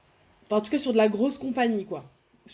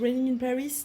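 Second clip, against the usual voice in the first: English title in a French speaker's showy English accent; accent anglais appuyé; 4 semitones higher than usual. Real, not acted. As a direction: say it with a proudly attempted English accent. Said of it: "vous avez vu mon magnifique accent". (accent anglais « magnifique »)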